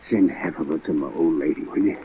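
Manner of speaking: faint, breathy last words, trailing off; barely getting the words out, fading; a dying man begging a last favour, fading; weak and dying. Real, not acted. Dying man's last request.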